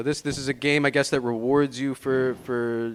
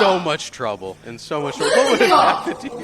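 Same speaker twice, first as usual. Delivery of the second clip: laughing shout; 4 dB louder than usual. Real, not acted. Laughing at the kid.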